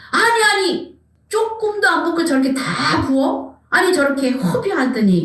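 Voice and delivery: acted indignation, starting high and settling; angry protest. Disciples angry at wasted perfume, high indignant protest easing off. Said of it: "화를 내면서 말을 합니다".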